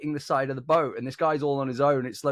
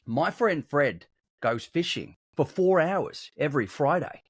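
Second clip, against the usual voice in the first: slow, deliberate Australian advert read; measured mock-advert delivery with pauses. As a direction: lightly parody a beer commercial. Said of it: "like, a mock advert".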